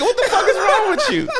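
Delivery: high, loud disbelief through laughter; laughing outrage. Real, not acted. Fan laughing at Goku helping Ginyu, high disbelieving yell.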